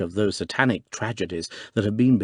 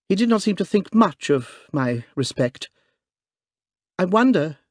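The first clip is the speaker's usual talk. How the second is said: high, loud trembling woman's voice; clear quivering voice; 8 semitones higher, 4 dB louder than usual. Acted. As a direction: speak up bravely, trembling. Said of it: "quivering voice with which a courageous woman speaks publicly".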